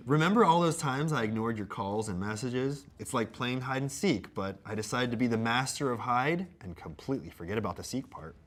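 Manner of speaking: mock-earnest apology read; measured comic recitation; letter read aloud. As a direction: read a scripted apology with playful theatre.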